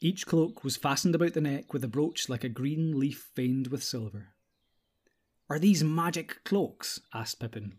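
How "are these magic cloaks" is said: slow, higher, full of wonder. Acted. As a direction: ask it wide-eyed like a child. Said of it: "looking at them with wonder".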